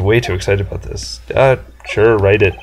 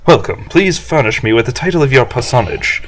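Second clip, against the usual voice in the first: pompous businessman; 3 semitones higher than usual. Acted. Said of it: "this guy's arrogance meter is off the scale".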